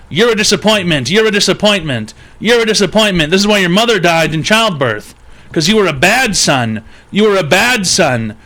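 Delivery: lightly voiced dad scolding his son; abusive dad.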